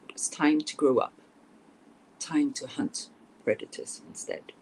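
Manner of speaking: dramatic storybook reading, hushed at eerie moments; story narration. A narrator's reading. Author reading Little Red's battle with the werewolf, dramatic narration. Author reads her fairy tale aloud.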